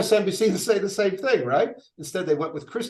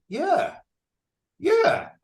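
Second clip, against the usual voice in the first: mock crowd cheer; 14 semitones higher than usual. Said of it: "half the crowd is like".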